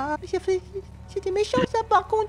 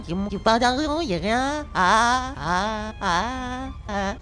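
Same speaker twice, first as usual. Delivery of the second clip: fake crying; 10 semitones lower, 5 dB quieter, much slower than usual. Prank: fake crying about no parents.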